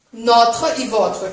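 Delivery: Notre e votre said slowly; slow model words. Shown as a demonstration. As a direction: spell it out for the class. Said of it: "Voilà". (bem devagar, para a turma)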